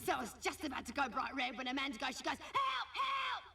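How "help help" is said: high, shrill-pitched fake cry for help; mock cry for help. Kylie mimicking Amanda's fake drowning, high mock cry for help. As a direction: squeal help like a girl faking drowning.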